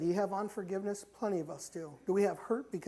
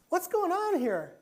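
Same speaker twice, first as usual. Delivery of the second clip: slow, higher barked question; cop demanding; 10 semitones higher, 4 dB louder, slower than usual. Retold or imitated. Cop demanding at church door.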